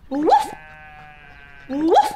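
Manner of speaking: short loud rising woof; playful single woofs; dog bark. Pretend. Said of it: "I'm barking".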